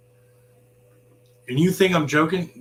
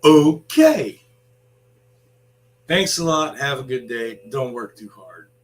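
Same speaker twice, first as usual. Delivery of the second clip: sarcastic; 6 dB louder than usual. Retold or imitated. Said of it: "I'm like".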